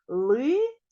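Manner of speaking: Лисиця split into three clear syllables; syllables spelled out. Shown as a demonstration. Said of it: "В цьому слові три склади".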